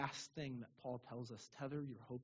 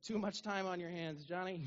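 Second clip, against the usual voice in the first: laughing; 6 semitones higher, 7 dB louder than usual. Real, not acted. Laughing at his own story.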